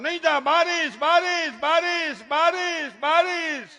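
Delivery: high, loud, singsong warning; mock-fretful mom repeating the rain word; overprotective mother. Mother warns child to stay out of the rain, high mock fret. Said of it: "વરસાદનો બારો કાઢે".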